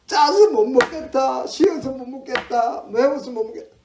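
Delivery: high-pitched mock whine; picky complaining. Picky eater rejects every dish, whiny griping. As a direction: whine through a list of faults. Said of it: "먹는 거 타박 많이 하죠".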